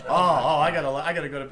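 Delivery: a lightly voiced toothless old guy, flustered; hint of a panicky toothless character. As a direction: gum the words like a man with no teeth. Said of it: "I kept doing that character".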